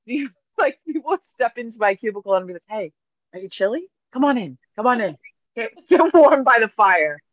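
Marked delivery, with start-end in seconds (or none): 2.7-7.2 higher, louder cheery welcome, laughing through it; cheery host. Retold or imitated. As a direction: invite them in to the fire like a jolly host. Playing host at her cubicle fire.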